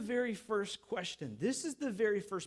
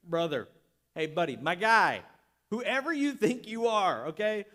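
disrespectful tone; 5 dB louder than usual. Retold or imitated. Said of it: "I don't think he's speaking in a respectful tone".

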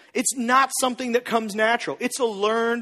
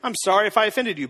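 defensive rushed apology; faster than usual. Retold or imitated. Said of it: "some of you are like".

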